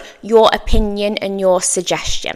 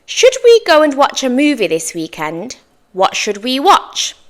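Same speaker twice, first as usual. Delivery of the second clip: suggestive tone; 3 semitones higher than usual. Shown as a demonstration. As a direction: propose it as an open suggestion. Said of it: "suggestive tone".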